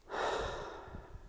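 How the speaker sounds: slow unvoiced breath out; long exhaled sigh. Real, not acted. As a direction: release a long settling sigh. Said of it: "I'm not quite in breath".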